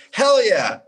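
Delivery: high, loud eager yell; instant yes. Retold or imitated. Drummer accepting the tour without thinking, eager outburst. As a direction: blurt it out, high and emphatic. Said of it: "without even thinking".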